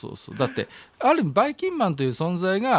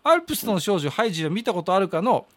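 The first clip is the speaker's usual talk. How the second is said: lightly voiced old man reading a letter; a hint of an old grandpa holding court; creaky wise old man; 6 semitones higher than usual. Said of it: "中の人格が出てまして".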